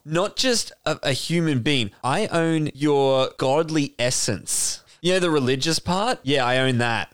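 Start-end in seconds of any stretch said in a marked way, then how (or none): 2.0-4.8 slow, pompous proclamation; mock grand slave owner. Slave owner boasting to his slaves, slow and grand. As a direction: drag it out like a lordly owner.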